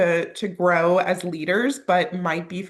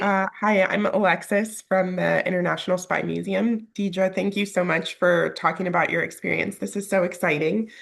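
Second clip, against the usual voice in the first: nasal voice from a cold. Real, not acted. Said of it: "pardon my, uh, nasally voice".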